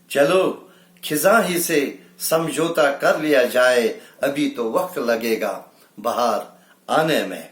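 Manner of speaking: measured Urdu verse delivery; mushaira-style recital; poetry recitation. Acted. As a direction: recite it as a ghazal line. Recites a ghazal couplet.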